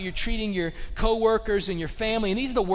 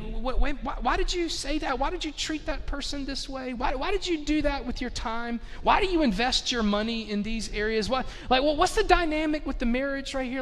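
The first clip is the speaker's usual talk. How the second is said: higher, searching why-questions; probing questions; 6 semitones higher than usual. Retold or imitated. A caring friend questioning your choices, raised and probing. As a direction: press a friend gently with why after why. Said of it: "people that'll step in and say".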